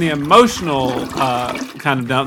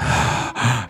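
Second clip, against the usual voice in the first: mock weary sigh; 6 semitones lower, 5 dB quieter than usual. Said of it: "our show sounds like".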